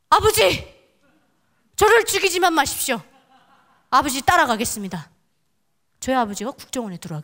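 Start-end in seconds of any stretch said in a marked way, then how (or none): 0.1-5.1 high, loud begging cry; desperate pleading. Retold or imitated. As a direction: beg for your life on your knees. Kneeling, begging father for life.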